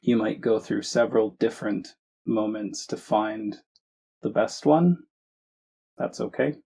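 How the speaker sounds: measured meditation guidance with long pauses; unhurried phrases, each given room to settle; guided meditation. Acted. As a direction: guide listeners gently, leaving space between phrases.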